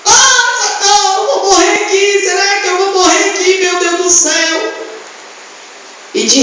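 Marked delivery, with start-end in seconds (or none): 0.0-4.7 hammed-up cry for help. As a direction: wail like a man about to drown. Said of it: "continuou gritando".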